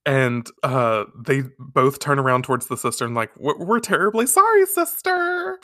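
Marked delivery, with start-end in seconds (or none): 3.4-5.6 high, singsong mock apology; exaggerated high-pitched contrition; chastened schoolgirls. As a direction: play girls apologising sweetly to a nun. Acted apology in unison to nun.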